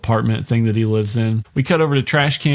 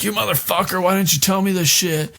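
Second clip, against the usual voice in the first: hammed-up furious yell; 7 semitones higher than usual. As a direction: ham up the devil's tantrum. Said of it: "He's like".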